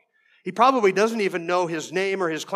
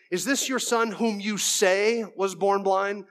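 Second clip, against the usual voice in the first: slow, disdainful questioning; sarcastic doubt; 2 semitones higher, slower than usual. Acted. Pharisees questioning the parents about their son, sarcastic doubt. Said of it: "you hear the sarcasm".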